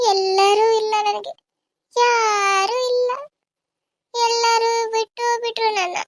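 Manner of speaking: grieving woman telling friend she wants to die; despairing grief. Acted. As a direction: drag each word out as if nothing is left.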